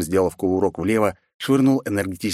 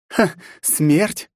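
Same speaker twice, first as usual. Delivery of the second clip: mocking laugh; 8 semitones higher than usual. A narrator's reading. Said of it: "злобно усмехнулась она".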